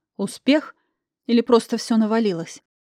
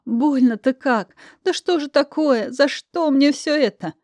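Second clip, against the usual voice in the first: sobbing lament; 5 semitones higher than usual. Acted. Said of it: "разрыдалась ещё сильнее".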